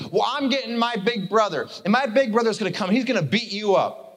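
put-on high little-girl threat. Little girl threatening boys with her brother, high and childish. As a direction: threaten like a small tattling sister. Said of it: "She goes".

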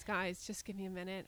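holding in a sneeze; speaking through a sneeze coming on; about to sneeze. Real, not acted. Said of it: "I have to sneeze".

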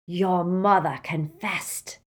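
slow, sneering. Acted. Riddle sneers at Ron about his mother, slow. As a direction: taunt him with cold contempt. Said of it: "sneered Riddle".

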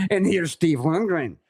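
slow, laughing show-host introduction; laughing show intro. Retold or imitated. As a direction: reenact the on-air intro while laughing, drawn out. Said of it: "I'm like".

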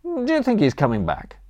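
high-pitched call across a lawn. A narrator's reading. Stranded master to distant butler, calling across the lawn. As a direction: call over to someone at a distance. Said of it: "I called across the lawn".

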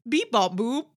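mock future speak. Co-host mocking how everyone talks in the future, robotic babble. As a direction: mimic silly future-speak in beeps. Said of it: "everyone else in this environment is like".

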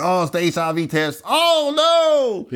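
high, drawn-out comic wail; hammed-up panic rising very high; mock dread. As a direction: play up the horrified realization for laughs. Retells dread about HIV test.

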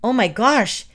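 high voice, rising to a loud cry; terrified, pitch climbing; horrified shriek. A narrator's reading. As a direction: shriek in mounting panic. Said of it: "the witch shrieked".

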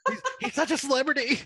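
high, laughing tease. Real, not acted. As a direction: laugh it out teasingly. Laughing at friend's fame.

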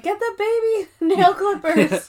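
high, drawn-out mock Asian accent, breaking into laughter; stereotypical Asian accent. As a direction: imitate Asian salon workers in an exaggerated accent. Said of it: "a stereotypical kind of thing".

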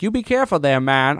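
half-hearted accent attempt at a menacing line; bad Donald Pierce accent. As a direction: try an accent and miss it. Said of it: "I can't do this accent. It's shitty".

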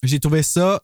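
talking while eating an orange; mouth full. Real, not acted. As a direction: speak around a mouthful of juicy orange. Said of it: "je mange un orange et ça jute".

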